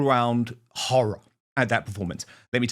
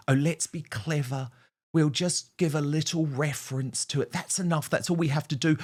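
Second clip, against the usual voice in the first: softer mock strategist voice; lightly sarcastic, hushed imitation of advisers; mock scheming; 4 dB quieter than usual. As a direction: quietly parody a self-satisfied plotter. Mocks party's timid strategy sessions.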